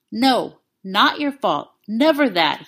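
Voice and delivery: slow, firm insistence; slowly insist, unwavering; insistent. A narrator's reading. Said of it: "he insisted".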